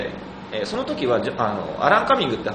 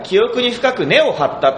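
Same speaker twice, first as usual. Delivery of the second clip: 記憶に深く根を張った said slowly with Kansai pitch, raised and louder; slow Kansai-lilted line reading; 関西イントネーションで; Kansai intonation; 10 semitones higher, 5 dB louder, slower than usual. Shown as a demonstration. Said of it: "関西イントネーション".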